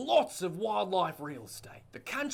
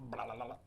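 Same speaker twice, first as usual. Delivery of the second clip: gecko chirp; 8 semitones lower, 10 dB quieter, much faster than usual. Acted. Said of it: "It was a very good impression of a gecko".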